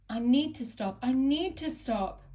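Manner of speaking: panting. A narrator's reading. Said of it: "he panted wearily".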